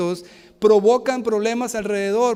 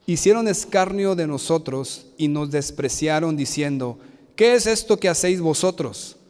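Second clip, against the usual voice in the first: scripture reading. Acted. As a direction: read the verses with weight. Reads scripture aloud.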